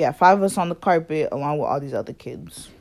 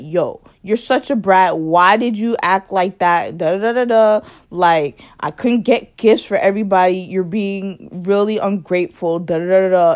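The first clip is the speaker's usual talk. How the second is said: louder, mocking lecture; a hint of an annoyed older cousin scolding; 3 semitones higher, 6 dB louder than usual. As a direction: nag the kid like a fed-up adult. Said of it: "he looking at me like".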